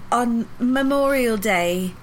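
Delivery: very slow, lightly voiced old lady; sloth-like slow. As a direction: stretch it out like a sloth. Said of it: "sloth-like".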